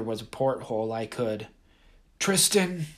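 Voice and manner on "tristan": emotionless. A narrator's reading. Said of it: "lack of emotion in Uncle C's voice".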